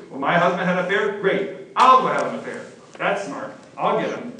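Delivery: loud, sarcastic outburst of a wronged wife; mock spiteful wife. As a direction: snap it out like a spiteful wife getting even. Voicing a betrayed, vengeful wife.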